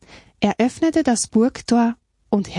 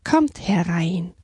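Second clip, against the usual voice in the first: slow, reassuring beaver's invitation; calm welcome; slower than usual. Acted. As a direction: welcome them in slowly and calmly. (ruhig einladend)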